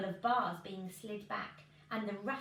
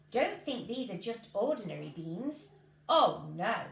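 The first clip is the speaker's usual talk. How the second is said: sly salesman; 2 semitones higher, 4 dB louder than usual. Acted. Man selling magic beans.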